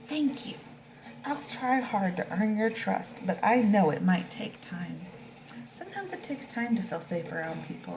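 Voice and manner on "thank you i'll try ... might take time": a hint of a shy porcupine, taking it slowly; storybook porcupine, slow and careful; gentle porcupine. Porcupine answers the dog.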